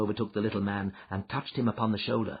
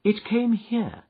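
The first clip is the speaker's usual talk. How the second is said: Holmes, calm and assured; 12 semitones higher, 4 dB louder, slower than usual. Acted.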